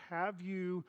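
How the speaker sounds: quiet and deliberate, word by word; calm dad. Retold or imitated. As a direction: imitate a patient father, pausing between words. Dad calmly questions frustrated son.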